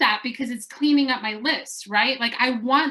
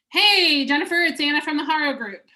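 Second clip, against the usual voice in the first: same cheery greeting; 4 semitones higher than usual. Shown as a demonstration. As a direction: repeat the chipper voicemail word for word. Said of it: "Next call".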